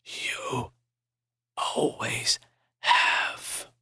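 breathy faint whisper; weak whisper. Acted. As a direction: barely whisper it, very soft. Dying man whispers.

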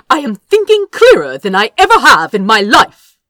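fast, loud snapping retort; snapped. A narrator's reading. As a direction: snap it back hard and quick. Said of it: "Azra snapped".

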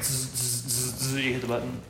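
short repeated electric zaps; imitated taser buzz. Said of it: "And it's like".

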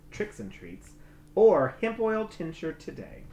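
upbeat sponsor read. Acted. Host reads the sponsor spot to listeners. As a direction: sell it like a podcast ad.

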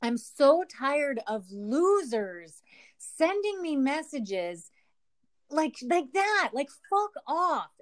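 drawn-out, fed-up venting; slow angry rant. Real, not acted. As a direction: spell out every word in disgust. Ranting about losers' messages.

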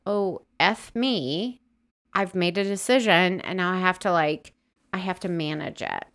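a put-upon Englishman managing things; light mock British accent. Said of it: "he's back to being English".

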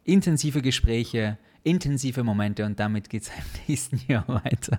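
mock priestly solemnity, slowing down; measured pulpit delivery, fading toward a whisper; wie ein Pfarrer. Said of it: "wenn du dann redest wie ein Pfarrer". (salbungsvoll getragen wie ein Pfarrer)

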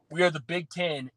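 emphasis on the word Big; stress on Big. Acted. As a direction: lean on Big as the key word. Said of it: "Emphasis on the word big".

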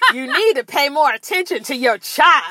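judgmental TSA lady. Retold or imitated. TSA lady telling mother off, judgmental. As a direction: lecture like a disapproving official. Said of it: "And she's like".

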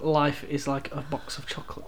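"Life is like a box of chocolates" said slowly and evenly. Shown as a demonstration. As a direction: recite it slowly, word by word. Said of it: "Say that slower".

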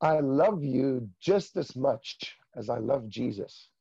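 slow, measured voice of God; unhurried, weighty divine pronouncement; God the Father speaking. Retold or imitated. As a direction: deliver it slowly as the Father's declaration. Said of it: "He says to me".

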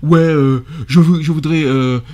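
mock street kid, hesitant then threatening; wesh youth. Host shows how not to ask for work, mock wesh youth. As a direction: imitate a slangy youngster leaning on the recruiter. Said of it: "et pas wesh".

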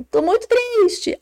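put-on high, drawn-out childish complaint; hammed-up sadness, slow and high; mock sad child. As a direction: imitate a child declaring hurt feelings. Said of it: "tá triste".

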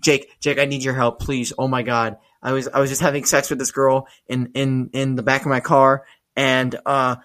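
imitating a mildly panicked friend; freaking out. Panicked friend leaving a voicemail about blood, acted-out freak-out. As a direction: retell a frantic plea for help, stumbling over words. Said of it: "him freaking out".

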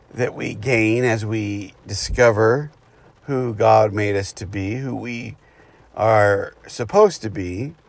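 speaking over rain drumming on the car; rain on car roof. Real, not acted. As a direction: talk with rain pattering on the roof. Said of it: "you can hear the rain hitting the car".

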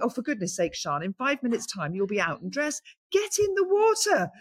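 a fond, fed-up push to get in the water; self-scolding. Retold or imitated. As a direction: pitch jumps way up on "Get in the water". Scolding herself into the sea.

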